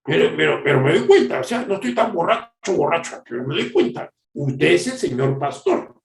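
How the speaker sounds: lightly acted drunk, repeating himself; imitated drunken rambling; drunk man. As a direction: play a tipsy man insisting he still follows. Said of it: "Y borracho me dice".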